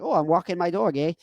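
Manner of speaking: lightly put-on silly character voice; a hint of hammed-up impression; Jordan Peterson. Shown as a demonstration. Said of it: "I wouldn't start doing a Jordan Peterson".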